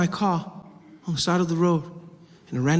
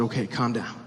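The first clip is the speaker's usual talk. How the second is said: soothing cop; 7 semitones lower, 5 dB quieter than usual. Retold or imitated. Cop soothing, low quiet.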